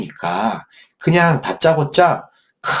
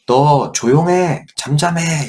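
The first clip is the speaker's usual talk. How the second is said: scolding; 5 semitones higher, slower than usual. Acted. Disciples scolding the beggar, slow and stern. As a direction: hush him sternly. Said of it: "꾸짖었잖아요".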